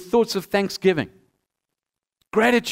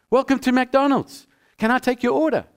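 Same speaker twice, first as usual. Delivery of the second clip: lightly voiced drive-through speaker, slightly raised pitch; a hint of the little voice in the box; drive-through order-taker; 3 semitones higher than usual. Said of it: "that little voice comes in the box".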